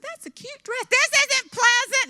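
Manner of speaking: high, slow, syrupy fake compliment; sugar-coat it, then let it sour; sweet-talking a rude stranger, high and slow; mock sweet voice. Sarcastic quote to the stranger.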